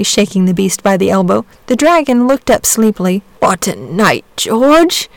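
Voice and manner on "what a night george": sleepy murmur. A narrator's reading. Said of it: "he murmured".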